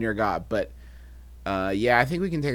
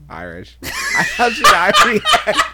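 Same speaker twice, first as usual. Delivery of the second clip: hammed-up Irish brogue; 9 semitones higher, 8 dB louder, slower than usual. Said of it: "Or should I say green?".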